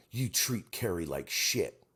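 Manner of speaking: slow, scolding fan voice; imitating an accusing fan. Retelling a stranger scolding him in a grocery aisle, slow mock-scold. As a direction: drag it out like an offended stranger. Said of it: "She goes".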